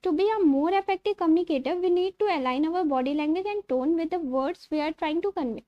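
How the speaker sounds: slow, careful reading of notes; slowly dictating textbook lines; reading aloud. Acted. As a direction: read it out word by word, slowly. Reads English slide text.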